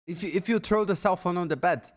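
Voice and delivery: loud, high, incredulous yelling; angry shouting. Real, not acted. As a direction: shout it in disbelief. Angry rant at the streamer.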